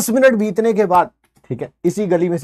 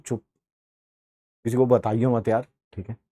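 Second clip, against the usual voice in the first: hushed plea; 8 semitones lower, 7 dB quieter than usual. Retold or imitated. Boy begs cousin to keep quiet.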